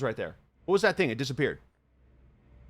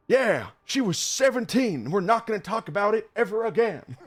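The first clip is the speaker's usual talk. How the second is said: mocking the film's breezy cover-up, pitched way up; mock documentary voice; 11 semitones higher, 5 dB louder than usual. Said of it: "they just kinda go like".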